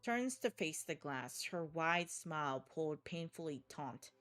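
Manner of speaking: dark, measured horror narration; story narration. A narrator's reading. Narrator telling the player a horror scene. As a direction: read it like a grim thriller.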